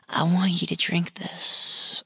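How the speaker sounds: slow, drawn-out coaxing, lightly acted; mock coaxing. Retold client urging him to drink, slow mock coaxing.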